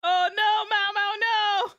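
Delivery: high, loud squeal of dismay at the screen; real horror-laugh shriek; shocked shriek. Real, not acted. Viewer shrieking at a shocking anime scene, high squeal.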